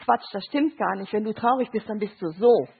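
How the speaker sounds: imitated dismissive sister. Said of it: "ihre fünfzehnjährige Schwester sagt".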